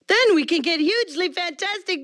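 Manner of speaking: a hint of Arnold Schwarzenegger; lightly voiced Arnold muscle-man delivery. Shown as a demonstration. Actor slipping into Arnold mid-line during recording, lightly voiced. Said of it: "I was doing Arnold".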